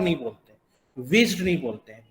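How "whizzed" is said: whizzed ending in a voiced "d". Shown as a demonstration. Teacher showing the mistake to learners, whizzed with a voiced d. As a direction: wrongly close whizzed on a d sound. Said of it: "ये नहीं कि हम ड की तरह pronounce करेंगे".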